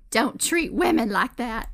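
slow movie-quote Southern drawl; drawn-out imitation Southern accent. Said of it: "sexy Southern accent".

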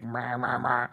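imitated Pokémon cry. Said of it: "Huntail is a little more like".

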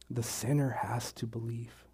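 barely voiced, choked with emotion; words catching in a tight throat. Real, not acted. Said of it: "Sorry, I'm all choked up".

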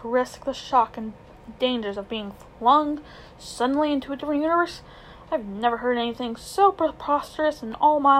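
put-on an outraged old man scoffing at the idea; pompous old uncle. Uncle Andrew's indignant speech.

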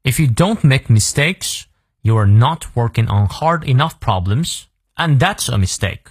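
careful demonstration reading for learners; model read-through. Shown as a demonstration. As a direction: read it through clearly for students to follow. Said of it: "从头到尾我们来过两遍". (领读示范，清晰完整)

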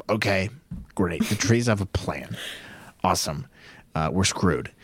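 dry, halting fake acceptance; mock unimpressed reaction. Podcaster imagining his reaction to Gunji's plan, dryly sceptical. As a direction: pretend to go along, with no faith in it. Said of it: "If I heard that, I'd be like".

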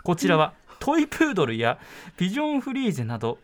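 measured documentary narration; travel show narration. Shown as a demonstration. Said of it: "これちゃんとナレーション風ですね".

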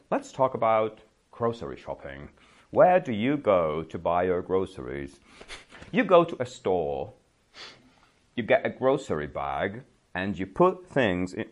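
a hint of a stiff, canned classroom-lesson voice; mock textbook teacher. Teacher parodying a classic English lesson, mock textbook voice. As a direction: play a corny old English-course tape, half-joking. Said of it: "This is kind of like a classic English lesson".

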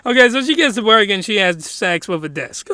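talking through laughter; trying to say it without cracking up; laughing. Real, not acted. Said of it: "man, that's funny".

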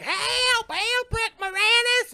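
high, shrieked cry for help; mock scream for help. Woman calling Rick Moranis for help, high mock shriek. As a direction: ham up a panicked call.

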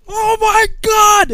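huge, slow, high outraged yell; drill sergeant shouting. Retold or imitated. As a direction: stretch it into a full sergeant's bellow. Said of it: "there's a drill sergeant on the inside".

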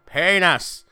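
badly faked Irish "Penis"; Irish accent. Drunk Irish father naming the kid, attempted Irish accent. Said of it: "That was my best Irish accent".

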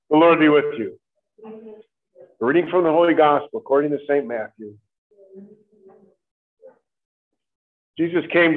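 solemn, measured gospel reading; gospel proclamation. Acted. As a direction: proclaim it from the ambo.

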